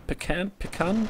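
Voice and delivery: Pecan tried two ways, questioning; trying out pronunciations. Shown as a demonstration. Caster unsure of a player's name, testing Pecan aloud. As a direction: try Pecan as pih-KAN, then PEE-kun. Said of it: "I don't know".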